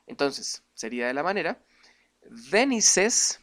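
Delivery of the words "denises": Denises with an E sound before the final S, louder. Shown as a demonstration. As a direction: Denises said higher and louder for the class. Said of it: "se pronuncia Denises".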